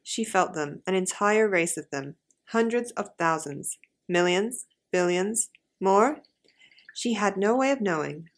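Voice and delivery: story reading in an attempted American accent; generic American accent. Shown as a demonstration. Host reading the book's second line to co-host in American accent. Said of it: "say something in Generican".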